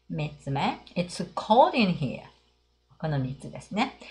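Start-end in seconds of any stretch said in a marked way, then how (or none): 0.9-2.2 slow model reading. Shown as a demonstration. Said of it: "じゃあ上の三つ読んでみましょう".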